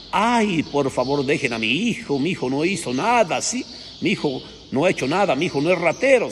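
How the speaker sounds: lightly voiced mother begging for her son; a touch of a frantic plea; pleading mother. Mother begs soldiers to spare her son, mild pleading.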